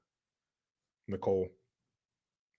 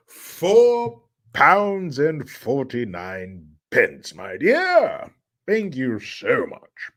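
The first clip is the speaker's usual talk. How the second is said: slow, hammed-up British thank-you; play-posh British, slowly; mock British accent; 3 dB louder, much slower than usual. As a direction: draw it out in a put-on British voice. Reading donation in mock British.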